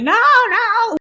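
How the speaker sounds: high mock cry of no; a retold frightened high no; imitating crying protest. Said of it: "I'm crying. I'm like".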